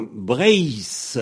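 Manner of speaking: "Breis" with drawn-out sibilant ending; "Breis" stretched, hissed at the end; Z form. Shown as a demonstration. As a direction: say "Breis" with a long final s. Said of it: "avec un Z".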